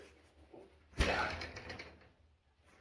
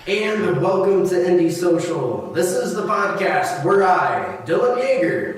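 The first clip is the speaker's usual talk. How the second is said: robotic hologram voice; 7 semitones higher, 13 dB louder than usual. Acted. Hologram intro, far voice.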